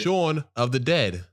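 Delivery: slow put-on British title read; British accent. Host announces the film title, British accent. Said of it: "Why you guys keep doing it with a British accent".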